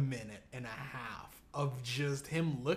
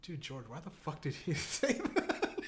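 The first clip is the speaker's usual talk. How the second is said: laughing through a quote; 2 semitones lower than usual. Retold or imitated. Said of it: "But Todd goes".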